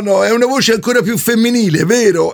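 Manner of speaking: fake woman's voice. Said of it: "la voce un po' bracuta".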